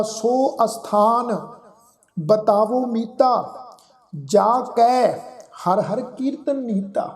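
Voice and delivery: slow, measured verse reading with held vowels; scripture recitation. Shown as a demonstration. Teacher reciting a Gurbani line to the congregation, slow recitation. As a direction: recite it slowly, phrase by phrase. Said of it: "ਸ਼ਬਦ ਉਚਾਰਨ ਕਰਾਂਗੇ".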